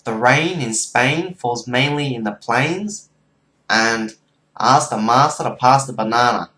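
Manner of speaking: low-pitched Aussie accent; Australian accent. Shown as a demonstration. Showing viewers two test lines, Australian accent. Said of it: "you wanna hear the Australian accent?".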